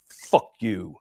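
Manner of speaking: "Fuck" with a stressed F, low-key retelling; emphasis on the F. Retold or imitated. Officer retelling a dying man's last words, stressed F in "Fuck". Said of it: "with the emphasis on that F".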